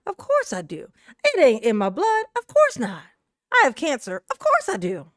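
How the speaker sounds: lightly mimicked question-and-answer cadence. Commentator mimicking how the woman always talks, lightly imitated. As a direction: copy her unfrazzled manner, punching the middle phrases a little. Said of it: "exactly the way she always talk".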